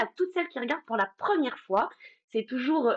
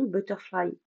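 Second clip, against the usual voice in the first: slow, careful French-accented English; clumsy English accent; 4 semitones lower, much slower than usual. Real, not acted. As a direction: spell out the English brand name slowly in a French accent. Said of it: "j'ai pas un accent anglais". (anglais prononcé avec un fort accent français, lentement)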